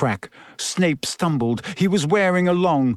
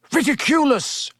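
Ron; 10 semitones higher than usual. A narrator's reading. Pupil facing a giant spider, high contained bellow. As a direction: bellow the spell on a high pitch. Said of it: "bellowed Ron".

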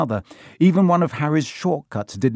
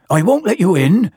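loud, high, puffed-out refusal; Hagrid; 7 semitones higher, 6 dB louder than usual. A narrator's reading. Hagrid at the window to Harry, puffing. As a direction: call it out, puffing with effort. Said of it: "he puffed".

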